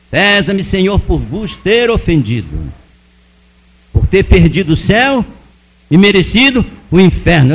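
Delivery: measured recited prayer; oração recitada. Retold or imitated. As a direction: recite a memorized prayer phrase by phrase. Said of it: "aí fui orar o credo". (reza decorada, frase a frase)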